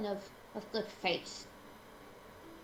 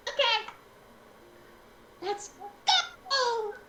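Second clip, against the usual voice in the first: excited cry; 13 semitones higher, slower than usual. Real, not acted. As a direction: call everyone to go, thrilled. Excited call to go.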